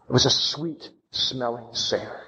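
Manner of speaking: ordinary delivery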